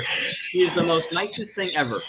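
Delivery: soft unvoiced whisper. Real, not acted. Telling the podcast how sweet his snake is with others, whispered. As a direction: whisper it like a secret.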